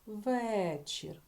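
"вечір" with a long, clear stressed Е. Shown as a demonstration. Teacher offers a check word to pupils, stretched Е in "вечір". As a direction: draw out the first Е in "вечір". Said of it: "звук е став під наголос".

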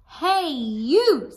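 loud, high grouchy call; grouchy shout. Acted. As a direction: yell a grumpy challenge. Ladybug challenges hyena.

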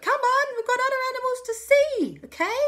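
high, loud hurry-up voice; high, loud calling to move on; impatient call. Acted. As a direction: chivvy him along, fast and high. Family hurrying Alexander along.

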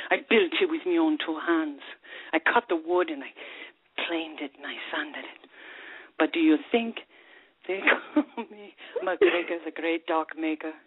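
lilting Scottish brogue as the barman; Scottish pub accent, rolled and proud. Acted. Joke teller voicing a bitter Scottish barman in accent. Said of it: "we definitely applaud you on your accent".

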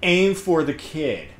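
slow, cold, deliberate order; lightly voiced villain order, slowed down; menacing Crosshair quote. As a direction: hand down the order slowly like a ruthless soldier. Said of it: "Crosshair just goes".

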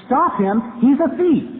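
high, loud call to a passerby; acted yell. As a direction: call out the alarm across a distance. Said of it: "he yells to the man".

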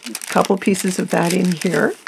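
ordinary delivery

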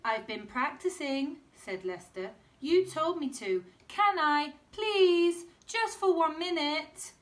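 put-on high, loud pleading kid's voice; high loud begging child; pleading boy. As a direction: beg like a little boy.

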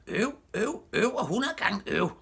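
very high exasperated yell; high-pitched protesting cry; screaming. A narrator's reading. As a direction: shriek your frustration from below. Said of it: "skreg Knalle dernede fra".

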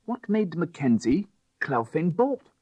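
urgent question. A narrator's reading. Crowley demanding answers.

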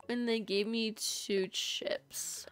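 hushed confiding whisper to chat. Real, not acted. Streamer whispering an odd memory to chat, hushed. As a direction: lean in and whisper the odd little secret. Secret-sharing aside to chat.

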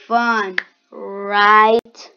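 loud mock enthusiasm with a drawn-out "right"; heavy sarcasm, punched loud; sarcastic. Real, not acted. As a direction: feign excitement, stretching out the question. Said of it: "That was sarcasm, sarcasm".

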